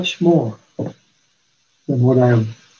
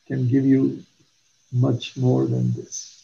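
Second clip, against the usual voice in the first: softer, slow, reassuring; quiet reassurance; 3 semitones lower, 8 dB quieter, slower than usual. Retold or imitated. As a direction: drop the voice and slow down to comfort. Quoting God's answer.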